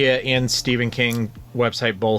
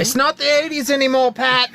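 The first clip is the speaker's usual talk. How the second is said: stern dad voice; 13 semitones higher, 4 dB louder than usual. Pretend. Playing the dad back, teasing.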